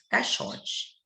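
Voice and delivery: Caixote whispered, no voice at all; whispered demo. Shown as a demonstration. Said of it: "quase não aparece". (Caixote sussurrado)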